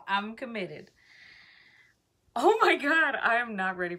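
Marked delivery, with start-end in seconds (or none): 2.3-4.0 high, loud shriek of nerves; panicked outburst. Real, not acted. Vlogger shrieking before ripping the wax strip. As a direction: burst out in panic.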